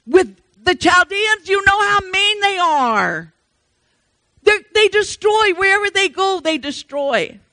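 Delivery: a prophet protesting to God in disbelief; Habakkuk pleading. Retold or imitated. Preacher voicing Habakkuk arguing with God, pleading. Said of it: "Habakkuk had to say".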